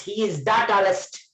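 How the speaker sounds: THE said "tha" before the consonant; short THE leading into TALLEST. Shown as a demonstration. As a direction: say THE with an open "uh" vowel, never "thee". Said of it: "ta sound is consonant sound".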